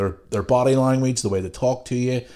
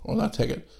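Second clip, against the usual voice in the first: mock customer; 8 semitones higher than usual. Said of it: "People come into your shop and go".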